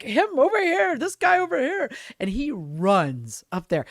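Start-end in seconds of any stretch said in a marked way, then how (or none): 0.0-1.9 much higher, louder call across a crowd; hammed-up stage shout; pirate calling out. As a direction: imitate a pirate picking a volunteer. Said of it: "one of the pirates is like".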